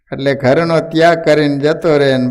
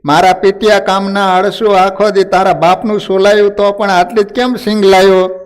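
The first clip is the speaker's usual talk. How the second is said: mildly roared scolding, raised pitch; angry roar; 4 semitones higher than usual. Acted. Wife berates her lazy husband over few peanuts, angry roar. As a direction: scold with a touch of fury, voice lifted. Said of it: "એની પત્ની ત્રાડુકી".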